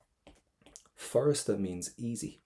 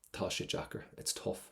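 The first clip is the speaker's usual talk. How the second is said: bored student shrug; 7 dB quieter than usual. Retold or imitated. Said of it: "they just kind of shrug their shoulders".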